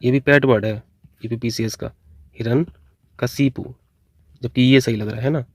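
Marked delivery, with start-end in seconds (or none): 2.3-3.7 hiraṇyakaśipu: slow, syllable by syllable, "हिरण्यकशिपु"; careful spelling-out. Shown as a demonstration. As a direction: stretch out "हिरण्यकशिपु" slowly, each syllable clear. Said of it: "इसकी जो correct वर्तनी है वो यही है".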